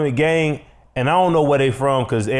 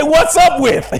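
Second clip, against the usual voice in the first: high, loud shouted greeting; shouted intro; 13 semitones higher, 6 dB louder, slower than usual. Shown as a demonstration. Co-host demonstrating the intro, shouted high. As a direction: yell the intro line to show how. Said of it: "You can just say".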